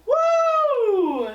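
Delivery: loud, high whoop of joy; excited cheer. Real, not acted. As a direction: cheer her on wildly. Cheering friend's promotion news.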